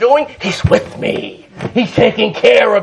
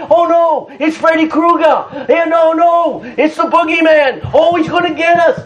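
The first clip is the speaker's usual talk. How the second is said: lightly raised, hammed-up fright; mock scared disciples; 5 semitones higher than usual. Preacher mocking the frightened disciples, hammed-up scare. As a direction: play it as a silly ghost-story scare.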